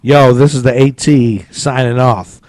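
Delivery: hammed-up hype host, rising to a high yell; radio DJ sign-off. Put-on DJ sign-off.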